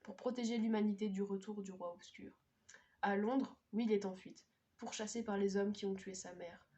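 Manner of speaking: measured read-aloud of a book summary; blurb reading. Acted. Vlogger reading a fantasy blurb to viewers, measured narration. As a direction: read the back cover evenly.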